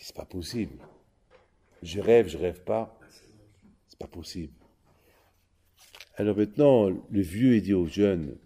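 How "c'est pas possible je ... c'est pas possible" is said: stunned hush. Acted. Guest stunned, speaking aside.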